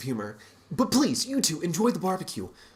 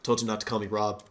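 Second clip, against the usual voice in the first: low gruff growl; 8 semitones lower, 4 dB quieter, faster than usual. Acted. Robert's low gruff reply.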